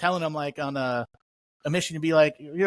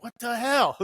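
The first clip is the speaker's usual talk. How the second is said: laughing disbelief; 7 semitones higher, slower than usual. Retold or imitated. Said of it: "and I'm like".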